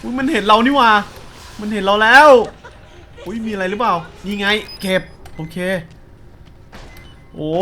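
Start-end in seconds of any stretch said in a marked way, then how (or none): 0.0-2.3 high, loud panicked shrieks; spotted by the monster, panicking; real terror squealing; terrified squealing. Real, not acted. Monster spots him.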